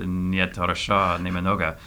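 slow, careful Russian accent. Shown as a demonstration. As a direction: show off a Russian accent on request. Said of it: "how's your Russian accent coming on? Do you wanna give us a".

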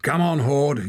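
high, loud crowd yell; yelling man. A narrator's reading. Watcher cheers Hord on, loud high yell. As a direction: bellow encouragement from the crowd. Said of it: "yelled a man".

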